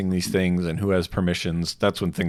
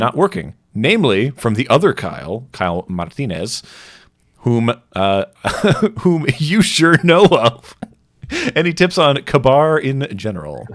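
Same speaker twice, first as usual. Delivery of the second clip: higher, louder put-on viewer voice; doing the voice; 6 semitones higher, 7 dB louder than usual. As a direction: read it in character, breaking into laughs. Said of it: "I'll do the voice".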